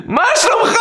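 very high, exuberant acted shout; joyful greeting. Rabbi hugging the bewildered patient, high overjoyed greeting. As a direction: greet him like long-lost family.

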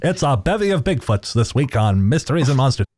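light transatlantic announcer voice; old-timey newsman. Pretend. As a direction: read it like a vintage newsreel host. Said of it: "You sound like an old-timey newsman".

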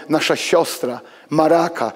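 usual speaking voice

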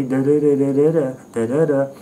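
lightly mocking run of rhythmic syllables; tossed-in parody of slam poetry's beat; slam poetry cadence. Critic dismissing slam poetry, mock cadence. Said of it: "We need less slam poetry".

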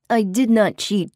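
demon voice. Acted. Demon denies cheating.

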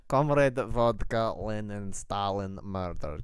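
hammed-up Russian accent word list; slow, deliberate Russian-accent trigger words. Shown as a demonstration. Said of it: "at the Russian accent".

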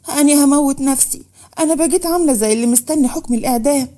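put-on a girl sobbing that she'll kill herself; crying despair. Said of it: "منال عيطت وقالت".

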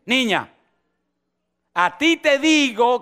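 put-on slow, firm call to the girl; commanding Jesus. Jesus speaks to the dead girl, slow and firm. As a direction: say it with authority. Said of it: "Y le dice".

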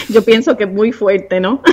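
said through a soft laugh. Real, not acted. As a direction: chuckle while admitting it. Laughs about her strong accent. (riéndose suavemente mientras lo dice)

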